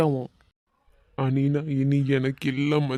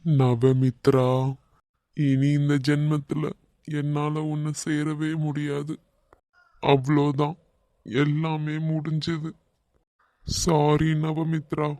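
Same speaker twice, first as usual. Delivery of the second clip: heartbroken; slower than usual. Acted. Heartbroken lover alone.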